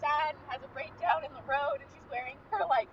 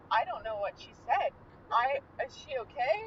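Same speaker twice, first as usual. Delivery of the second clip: lower, lightly voiced puzzled man; retold husband; 5 semitones lower than usual. Husband turning to his wife, lightly voiced bafflement. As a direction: drop the voice a little for a baffled husband. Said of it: "he turns to her and is like".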